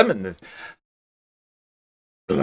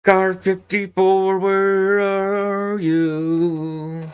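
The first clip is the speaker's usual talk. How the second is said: police radio call; 3 semitones higher, much slower than usual. Pretend.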